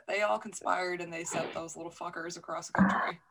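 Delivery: soft whispered aside; quiet conspiratorial whisper. Real, not acted. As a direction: hush it like a secret. Quiet aside about the plot.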